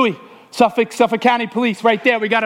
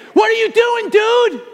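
voice of God rebuking; 10 semitones higher than usual. Retold or imitated. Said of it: "God kinda hit me".

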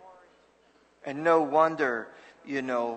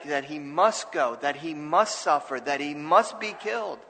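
firm stress on each "must"; repeated phrases leaning on "must"; emphatic MUST. Retold or imitated. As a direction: land on "must" in every clause. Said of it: "he is making it emphatic".

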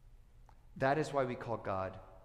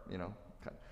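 ordinary talk

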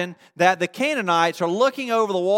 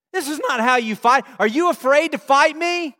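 higher-pitched taunting challenge; mock yelled challenge; 6 semitones higher than usual. Canaanites taunt silent Israelites from the wall, mock yelled challenge. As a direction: goad the enemy into a fight. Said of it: "what he yelled to David".

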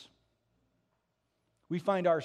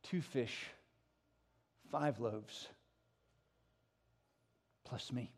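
softer, intimate voice; quiet revelation; 4 semitones lower, 5 dB quieter, slower than usual. Acted. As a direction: let the point land gently.

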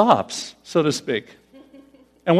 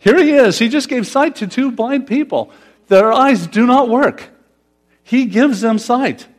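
fervent emphasis; 6 semitones higher, 3 dB louder than usual. Real, not acted. Emphatic preaching climax.

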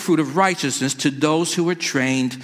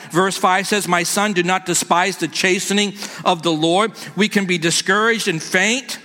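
raised, earnest sermon reading; preaching; 3 semitones higher than usual. Acted. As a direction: preach the passage with lift. Preaching scripture at raised pitch.

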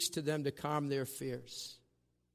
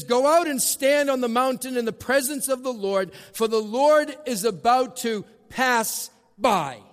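louder, higher proclamation of the Lord; voice of God; 8 semitones higher, 8 dB louder than usual. Acted. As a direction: announce it as God's command. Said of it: "he says".

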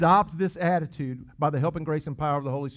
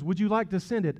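mock Siri; 4 semitones higher than usual. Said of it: "When she says".

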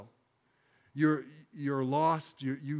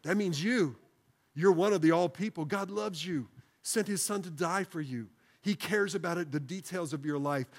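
preaching emphasis; 3 semitones higher than usual. Acted. Preacher presses the point home.

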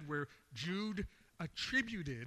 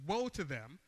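forceful scripture reading, slightly raised; loud, emphatic reading; 4 dB louder than usual. Shown as a demonstration. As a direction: declare it with the writer's emphasis. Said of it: "if I get a little bit loud".

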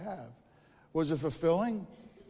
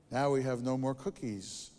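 sadly; 5 semitones lower than usual. Acted. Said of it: "says Toad sadly".

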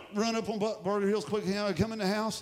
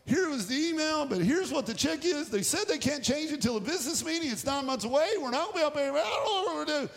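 higher, anxious rush of explanation to his wife; worried explaining; 6 semitones higher than usual. Retold or imitated. Husband pours out money worries to his wife, anxious. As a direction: voice lifted in worry, half laughing. Pastor telling wife about pay.

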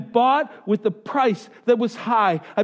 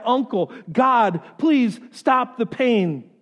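slow, drawn-out plea, higher pitched; crying out in pain; 4 semitones higher, slower than usual. Acted. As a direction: beg God for relief, stretching each word. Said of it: "The pain causes us to cry".

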